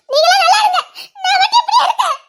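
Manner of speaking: high, laughing bitter sarcasm; bitter sarcastic laugh. Acted. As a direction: throw the blessing back with a laugh. Bitter sarcastic wish to husband. (கணவனிடம் கசப்பான கேலிச் சிரிப்புடன்)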